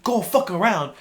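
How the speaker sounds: high, loud retold shout; angry yell. Dad yelling back at the truck driver, angry. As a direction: imitate a hothead yelling back. Dad's retort to other driver.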